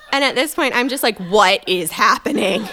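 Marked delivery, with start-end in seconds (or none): 1.2-2.7 baffled disbelief. Retold or imitated. Baffled at absurd claim.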